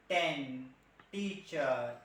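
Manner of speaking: "ten" and "teacher" with a curled-back Indian t; hard retroflex t on "ten", "teacher". Shown as a demonstration. Trainer lists Indian-style words, retroflex t. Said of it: "we Indian".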